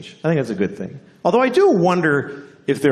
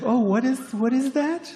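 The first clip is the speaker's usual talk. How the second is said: high, puzzled squeaky voice; mock bewildered; 13 semitones higher, 4 dB quieter than usual. A diner meeting a vegan for the first time, bewildered. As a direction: act baffled by something strange.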